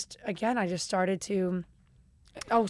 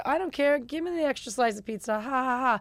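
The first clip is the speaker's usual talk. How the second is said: high, breezy fake nonchalance with a forced laugh; fake carefree; 4 semitones higher than usual. Pretending not to care in public, breezy and high. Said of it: "I was like".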